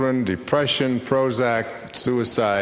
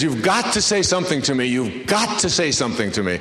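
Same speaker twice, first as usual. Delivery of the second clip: lightly acted urgent plea, GOT pushed high; mildly hammed-up insistence; excited pleading; 4 semitones higher than usual. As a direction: plead excitedly, imitating an overwrought fan. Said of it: "all excited".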